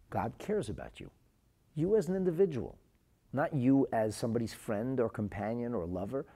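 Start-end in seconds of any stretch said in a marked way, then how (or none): 1.7-6.3 earnest pleading. Retold or imitated. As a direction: urge her, voice lifted. Physician pleads with suicidal girl.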